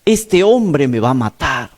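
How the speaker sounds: mild mock yell, climbing on the repeat; half-shouted imitation of a panicked boy; imitated yell. Preacher quotes possessed boy fearing the pastor, mildly imitated yelling.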